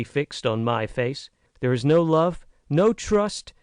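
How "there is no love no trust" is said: lightly voiced young American woman, rising urgency; frank, earnest girl. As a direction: plead with growing heat. Naomi pours out her complaint.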